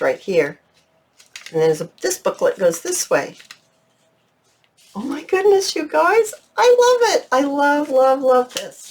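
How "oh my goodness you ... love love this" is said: much higher, squealing with delight; delighted gushing. Real, not acted. Crafter thrilled by her booklet, telling viewers in a high, excited voice. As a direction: gush over it like a favourite treasure. Gushing over another finished design.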